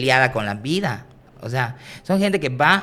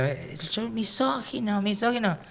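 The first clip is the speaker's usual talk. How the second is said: mock drunk heckler; 9 semitones higher, 5 dB quieter, slower than usual. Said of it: "la señora creo que se metió".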